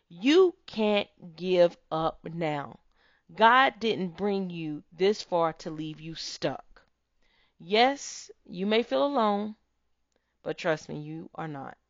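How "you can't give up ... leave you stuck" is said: booming motivational speech. Real, not acted. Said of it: "motivational speech".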